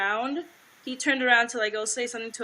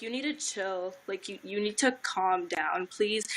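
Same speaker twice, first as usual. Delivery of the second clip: retold calm-down request. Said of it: "I was like".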